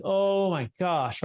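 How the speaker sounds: drawn-out, mildly crushed "oh". Retold or imitated. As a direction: imitate a couple's slow dismay, lightly. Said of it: "like, crushed".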